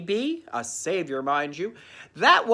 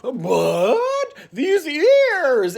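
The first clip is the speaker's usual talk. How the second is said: shocked cry; 11 semitones higher, 8 dB louder, much slower than usual. Acted. Shocked at Nestor's ears.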